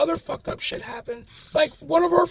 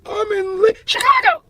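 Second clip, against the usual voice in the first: a much higher, louder yell of Chicago; eerie shout; 6 semitones higher, 8 dB louder than usual. Retold or imitated. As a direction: burst out shouting the city name. Possessed friend shouting location.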